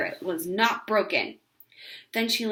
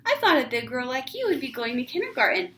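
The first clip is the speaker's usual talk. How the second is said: gushing neighbor; 6 semitones higher than usual. A narrator's reading. Neighbor cooing at Ramona in a high voice. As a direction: coo at the little girl. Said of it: "exclaimed Missus Whistler".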